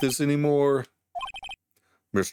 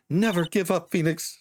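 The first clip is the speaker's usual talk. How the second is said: emotional; 6 semitones higher than usual. Acted. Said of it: "I'm a very emotional, uh, puppet".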